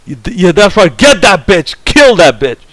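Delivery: egging on the on-screen revenge like a rowdy crowd; hammed-up audience cheer. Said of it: "they said".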